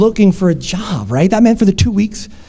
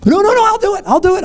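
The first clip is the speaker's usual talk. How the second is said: pleading; 12 semitones higher than usual. Retold or imitated. Victim begging scammer to keep job.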